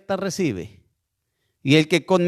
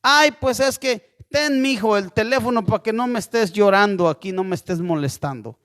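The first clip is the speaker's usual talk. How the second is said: a hint of a whiny, impatient parent; mock exasperated parent. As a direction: hand the kid the phone just to shut him up, a light caricature. Imitating a parent handing over a phone.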